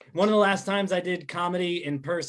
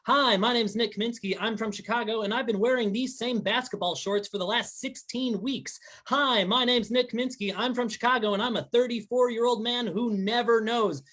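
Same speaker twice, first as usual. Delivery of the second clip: higher-pitched, recited stage introduction; rattled-off rehearsed intro; 4 semitones higher than usual. Shown as a demonstration. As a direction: try out canned openers one after another. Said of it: "I'm just gonna rattle 'em off".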